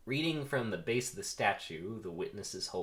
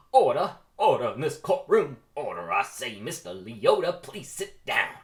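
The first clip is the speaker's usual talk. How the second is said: shouting judge; 4 semitones higher, 11 dB louder than usual. Acted. Judge shouting the courtroom down, furious shout. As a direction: bellow order over a rowdy courtroom, louder.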